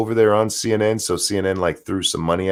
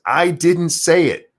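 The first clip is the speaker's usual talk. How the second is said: mock denial; 8 semitones higher, 3 dB louder, slower than usual. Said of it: "But he says".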